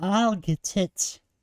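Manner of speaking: called out cheery and strangled. Narrator voices Camille calling out to get the knock at the door, strangled French cat voice. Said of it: "I just sounded like a strangled French cat".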